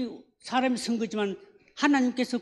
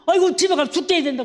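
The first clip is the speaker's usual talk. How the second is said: put-on panicky boy; 6 semitones higher, 5 dB louder, faster than usual. Boy panics about homework.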